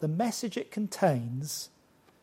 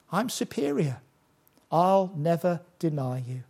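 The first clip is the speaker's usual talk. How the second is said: proud boast. Retold or imitated. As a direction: toss it off like a proud disciple. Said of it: "he's so proud".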